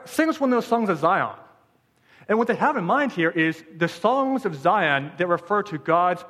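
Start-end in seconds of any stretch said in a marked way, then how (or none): 0.1-1.4 mocking taunt. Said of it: "Because they were mocked".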